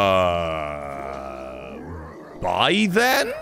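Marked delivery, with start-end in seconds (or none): 0.1-1.8 drawn-out low drone of bafflement; stalled, droning hesitation; long low "uh". Real, not acted. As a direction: hold a low uhhh, dumbfounded. Long stunned sound after event.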